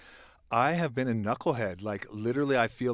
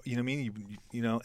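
ordinary talk

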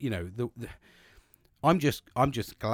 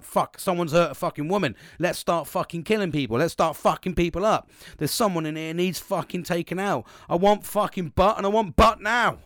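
higher, louder, building to a shout; hammed-up fired-up outrage, punching out the words; mock battle cry; 5 semitones higher, 5 dB louder than usual. Acts out men's protective instinct kicking in.

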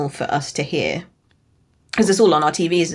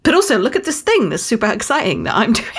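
fast, slightly higher excited gush; mock excitement; 5 semitones higher, faster than usual. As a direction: gush about yourself, hammed up. Mocking self-absorbed excitement.

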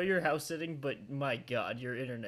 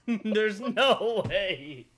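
astonished; 5 semitones higher, 7 dB louder, much slower than usual. Real, not acted. Reacting to frozen video call.

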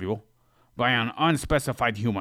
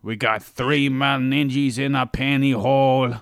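loud, proud punchline; excited pun reveal; 4 semitones higher, 6 dB louder than usual. Shown as a demonstration. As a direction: deliver the twisted lyric with gusto. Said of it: "What if we switch those words around".

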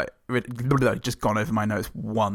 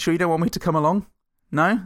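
put-on close warm intimate boyfriend; 6 semitones higher, faster than usual. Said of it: "says the boyfriend".

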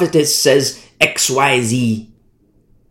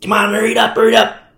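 higher-pitched, pestering hurry-up; mock impatient listener; 5 semitones higher, faster than usual. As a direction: rush the speaker along, raised pitch. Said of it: "I've had these complaints before".

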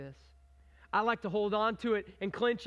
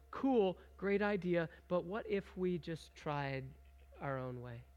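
dismissive brush-off; 3 semitones lower, slower than usual. Retold or imitated. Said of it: "We say".

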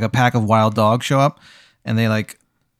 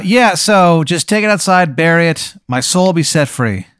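begging ghost; 6 semitones higher than usual. Acted. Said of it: "He's like".

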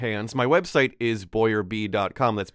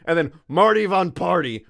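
announcer voice; 7 semitones higher, 5 dB louder than usual. Acted. Announcing the supporter names.

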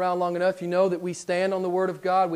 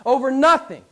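rising, louder, mocking warning; sarcastic retelling, louder and higher at the end; 5 semitones higher, 6 dB louder than usual. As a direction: build the sarcasm until it's nearly shouted. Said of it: "he said sarcastically".

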